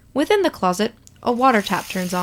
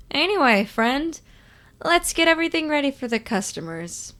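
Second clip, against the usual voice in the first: absent-minded; 5 semitones higher than usual. Acted. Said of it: "Sun comments absent-mindedly".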